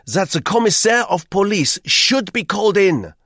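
high, loud, fussy Frenchman; eager hotel guest. A narrator's reading. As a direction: press him with busy insistence. Duclos announcing decision.

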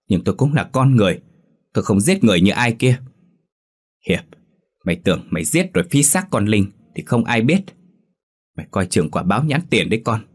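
furious lover shouting his accusation. Acted. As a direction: yell it back at him, fast and hot. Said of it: "Tuấn hét to".

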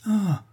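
a high, pained little ah; heartbreaking ah. A narrator's reading. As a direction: let out a brave but broken ah. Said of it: "avec un sourire déchirant".

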